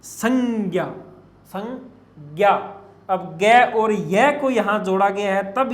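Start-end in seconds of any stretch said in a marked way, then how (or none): 0.0-2.5 संज्ञा as "sang-gya", drawn out and split; usage-form pronunciation. Shown as a demonstration. Teacher shows the form now accepted in use, usage-form pronunciation. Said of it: "प्रयोग रूप में इस रूप को अब ग्रहण".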